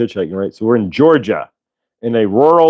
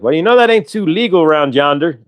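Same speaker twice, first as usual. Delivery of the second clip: higher-pitched mock Southern lawman; Southern cop; 5 semitones higher than usual. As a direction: play a folksy Southern cop. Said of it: "a big guy shows up".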